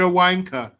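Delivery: hammed-up British "wanker"; mock British accent. Streamer mocking British slang.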